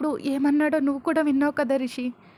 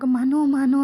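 much louder call for help; loud scream; 7 dB louder, much slower than usual. A narrator's reading. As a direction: scream his name across the water. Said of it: "అని గట్టిగా అరుస్తుంటే".

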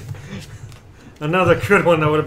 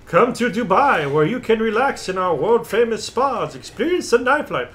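put-on South African accent; 4 semitones higher than usual. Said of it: "using, like, a South African accent on that one".

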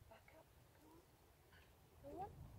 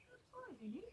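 whisper; 8 semitones higher, 20 dB quieter, much faster than usual. Real, not acted. Quiet praise to dog.

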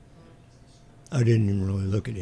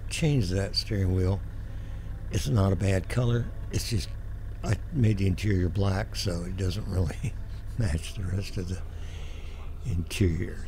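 hoarse, losing voice; a strained hoarse voice. Real, not acted. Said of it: "I'm losing my voice this evening".

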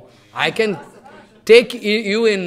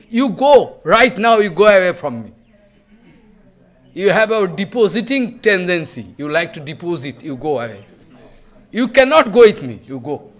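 angry dismissal; 5 dB louder than usual. Retold or imitated. Mahaprabhu sending Govinda away for keeping things, loud and stern. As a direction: drive the hoarder away in anger.

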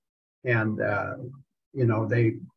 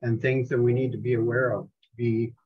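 prayer. Acted. Opens the meeting in prayer.

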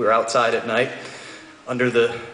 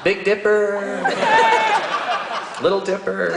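high put-on girlfriend voice; stargazing girlfriend; 8 semitones higher, slower than usual. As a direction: point out each constellation in a higher voice. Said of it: "She was pointing out all the constellations".

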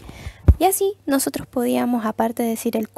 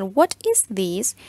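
slow model question; 3 semitones lower, 3 dB louder, much slower than usual. Shown as a demonstration. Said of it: "respondemos al".

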